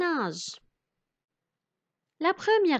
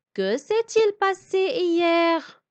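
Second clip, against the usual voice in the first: reading a character's question; 6 semitones higher than usual. Acted. Reading Canardo's question aloud.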